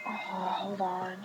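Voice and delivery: slow, whispered hold-on; hushed aside. Real, not acted. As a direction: whisper it softly, drawn out. Aside while the recording is interrupted.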